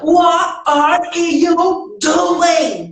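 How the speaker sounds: 1 nervous question. Shown as a demonstration. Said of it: "se a pessoa estiver muito nervosa".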